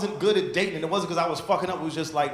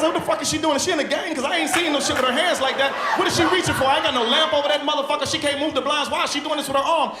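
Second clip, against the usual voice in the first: baffled inner voice; 5 semitones higher than usual. Retold or imitated. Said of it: "I was like".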